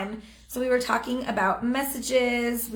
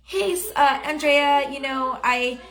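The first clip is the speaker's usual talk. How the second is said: careless message demo; 3 semitones higher than usual. Shown as a demonstration. Coach showing a wrong message with no question. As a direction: show the lazy way to ask. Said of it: "You don't wanna say".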